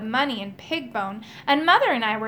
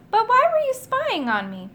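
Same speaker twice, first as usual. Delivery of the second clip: put-on higher, suspicious old magician; 10 semitones higher than usual. A narrator's reading. Magician demanding why the boy spied. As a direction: press the spy with a raised voice.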